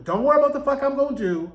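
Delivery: high, fast, cocky reassurance; brash Morpheus. Retold or imitated. Morpheus telling the muse not to worry, fast and cocky. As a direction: brush off her question quickly and boldly. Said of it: "she was like".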